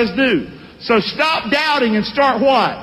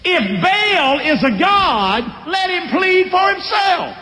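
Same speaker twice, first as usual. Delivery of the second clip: high, slow, drawn-out challenge to the crowd; defiant old father; 3 semitones higher, slower than usual. Acted. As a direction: stretch every word to taunt them. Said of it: "Daddy talking crazy".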